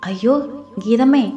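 alarmed cry. Acted. Woman seeing Geetha faint, crying out in alarm. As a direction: cry out in shock at her fall.

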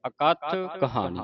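ਅਕਥ with its opening "a" clear; sounded initial vowel. Shown as a demonstration. Teacher demonstrates the aira sound, ਅਕਥ starting on clear "a". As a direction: separate ਅਕਥ ਕਹਾਣੀ, voicing the first "a". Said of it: "ਐੜੀ ਦੀ ਆਵਾਜ਼ ਉਚਾਰਨ ਹੋਵੇ".

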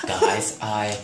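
low mock-excited diva; a pop diva. A pop diva announces her fiftieth comeback, low mock excitement. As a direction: keep it low, like a smoking diva. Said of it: "I'm pretty sure she smokes".

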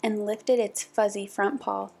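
measured picture-book storytelling; story narration. A narrator's reading. Narrator reads a puppy picture book aloud, storybook narration. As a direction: read clearly to children, with careful pauses.

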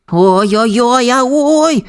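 high squeal climbing steadily in pitch; pups' exclamation. A narrator's reading. Puppies skidding on ice cry out, high rising yelps. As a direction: cry out like sliding pups. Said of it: "вигукували щенята".

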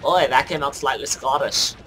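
light, badly faked Scottish lilt; a hint of mock Scottish; slightly Scottish accent. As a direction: toss it off in a poor Scottish accent. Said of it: "that was supposed to be Scottish".

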